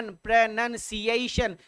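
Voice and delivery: प्रोनंसिएशन said slowly, syllable by syllable; slow pronunciation demo. Shown as a demonstration. Teacher showing students how to say प्रोनंसिएशन, slowly. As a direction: stretch out प्रोनंसिएशन clearly. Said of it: "प्रोनंसिएशन याद कीजिएगा sir".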